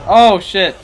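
loud yelp, voice cracking. Real, not acted. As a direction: let the voice crack on the shout. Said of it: "I think I just voice cracked again".

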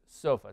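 sofa with the accent moved to SO; English first-syllable stress. Shown as a demonstration. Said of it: "El acento cambia un poquito". (sofa con el acento inglés en la primera sílaba)

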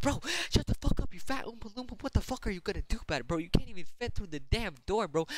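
mocking yell.

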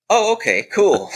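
a caught-out, startled high yelp; mock startled squeak. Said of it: "And I was like".

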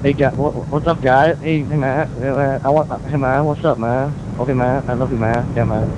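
mild surfer-bro chill; a hint of a mellow stoner guy; Mike the Ringmaster impression. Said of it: "now I will do Mike the Ringmaster's voice".

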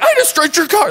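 high, squeaky sheepish agreement; sheepish echo. Retold or imitated. Driver agreeing sheepishly with the angry owner, high pitched. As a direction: echo it back, abashed.

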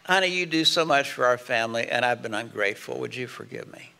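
a sincere, softening apology. Shown as a demonstration. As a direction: apologise humbly and gently. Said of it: "That's a good apology".

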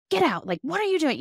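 high, sharp mock snap at a child; snapping at kids. Shown as a demonstration. Parent snapping at a kid to get out. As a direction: bark it out like an irritated parent. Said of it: "we can snap at our kids".

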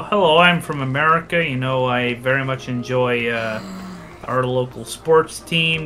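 lightly put-on American accent. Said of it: "slip into the accent a little bit".

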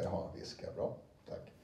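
soft unvoiced whisper; whispered aside. Shown as a demonstration. Narrator whispers a reminder to themself. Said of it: "krumelur under viskade".

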